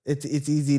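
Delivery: glitchy, metallic mic sound; words garbled like auto-tune; robotic voice. Real, not acted. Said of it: "You sound robotic".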